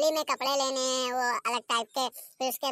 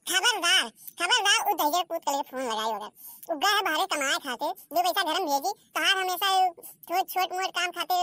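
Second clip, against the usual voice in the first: warning mother-in-law; 3 semitones higher than usual. Acted. Mother-in-law forbidding the phone call to parents, stern.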